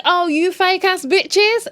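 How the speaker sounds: high, slow, loud sing-song scorn; mocking. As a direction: stretch it out in delighted mockery. Mocking the smiling couple.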